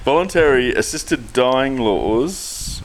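slow, halting start; false start. Shown as a demonstration. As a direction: drag out the headline. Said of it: "Oh, wait a second".

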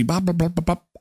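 quick run of "bop" babble; imitated chatter. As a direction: mimic busy chatter with repeated bops. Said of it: "So they're busy".

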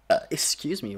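talking through a burp; burping the words. Real, not acted. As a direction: burp mid-sentence, then excuse yourself. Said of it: "wow, that's a beautiful burp".

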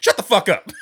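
loud, high, exploding outburst; mock angry shout. The speaker to laughing Gary, shouting. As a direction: shout him down in mock fury.

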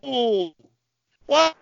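high pained cry of no; hit hard crying out. Real, not acted. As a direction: yelp in sympathetic pain. Anguished cries at brutal move.

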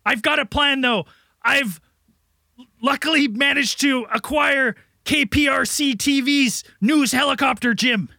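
lightly voiced frantic government official, exasperated; barking orders at Jim in a lightly played crisis voice; harried official. Frazzled agency chief pleading with Jim for help, lightly hammed. Improvised sketch, official character.

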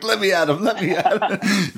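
playing the angry guy being restrained; mock furious wrestler. Held back, furious Bobby Fish.

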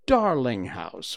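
delighted. Acted. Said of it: "Wendy said".

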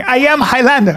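mock Italian accent; bad Italian accent. Man quoting his opponent in the fight, bad Italian accent. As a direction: imitate the boast in broken Italian-accented English. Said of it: "in his bad Italian accent".

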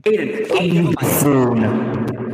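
mock pompous scolding. Mock scolding, insulting friend.

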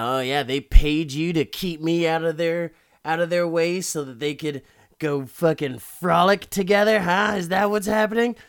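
acted-out indignant outburst; mock accusing. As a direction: throw the accusation at him, loudly. Acted jealous accusation of the friend.

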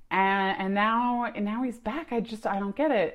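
baffled mom. Retold or imitated. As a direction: mom shrugging off what she can't explain. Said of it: "The mom is like".

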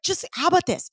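high-pitched imitation of nervous concern; nervous husband. Husband gently intervening in the closet purge, retold nervousness. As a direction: pitch it up, mimicking a worried partner. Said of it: "super nervous for me".

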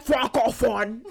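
loud hammed-up pageant call; mock pageant introduction. Playing along with the pageant joke, mock contestant call. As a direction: announce it like a contestant.

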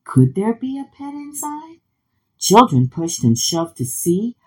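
animated storybook narration; reading to children. A narrator's reading. Narrator introducing a class pet to children, animated story reading. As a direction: read it with stretched key words. Reads picture book aloud to children.

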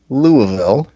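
Louisville as loo-uh-vil; imitated local pronunciation. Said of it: "the way that you even say the word".

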